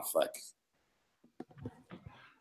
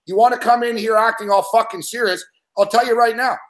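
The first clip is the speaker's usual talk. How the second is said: host scolding. Real, not acted. Host threatening caller Mick on air, firm angry scolding. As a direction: lay down the law, each word firm.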